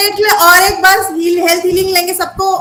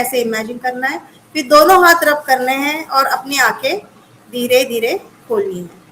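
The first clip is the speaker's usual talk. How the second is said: guided breathing meditation; 2 semitones lower than usual. Acted. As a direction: lead them gently through each breath. (धीमी शांत ध्यान वाली आवाज़)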